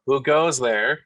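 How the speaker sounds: lightly acted shout of challenge; guard's challenge shout. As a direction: call it out as a guard, half-voiced. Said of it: "You hear another shout".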